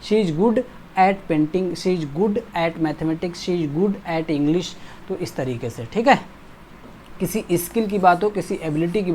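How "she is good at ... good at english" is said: slow repeated drill sentences. Shown as a demonstration. Teacher drilling "good at" examples slowly. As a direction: read each example slowly, word by word. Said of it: "at लगा दो बिना सोचे समझे".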